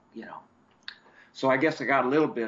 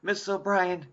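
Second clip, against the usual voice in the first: Timmy voice; 4 semitones higher than usual. Retold or imitated. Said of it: "He goes".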